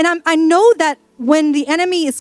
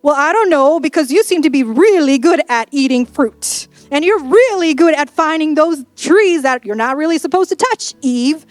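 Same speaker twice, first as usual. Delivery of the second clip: mock marital sniping. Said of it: "I think this is how they fought".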